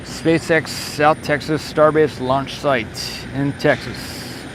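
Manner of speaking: slow, measured dateline read; formal announcement. Acted. Streamer reading out the location for viewers, slow and formal. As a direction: read the location like an official log entry.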